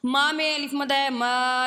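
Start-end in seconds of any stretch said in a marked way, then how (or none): 1.1-1.7 ما with the alif stretched for one beat; drawn alif in ما; long alif. Shown as a demonstration. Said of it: "اس طرح کی ہم آواز نکالیں گے".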